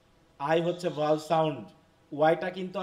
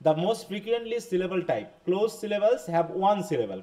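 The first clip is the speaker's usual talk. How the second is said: very slow, careful reading of a text; slow classroom reading aloud; 2 semitones higher, much slower than usual. Shown as a demonstration. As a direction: read it word by word for learners. Reads English text to class. (ক্লাসে ধীরে ধীরে ইংরেজি পাঠ)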